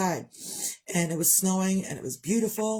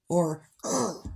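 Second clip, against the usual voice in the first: sigh and groan. Retold or imitated. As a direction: let a sad ugh out of nowhere. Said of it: "I make weird sounds".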